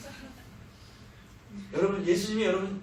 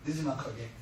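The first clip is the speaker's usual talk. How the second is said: 느지막하게 repeated lower and softer, falling; soft echo; 5 semitones lower, 6 dB quieter than usual. Shown as a demonstration. Preacher echoing the word to the congregation, softer and lower. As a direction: drop the voice and let 느지막하게 fall away. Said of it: "아주 느지막하게".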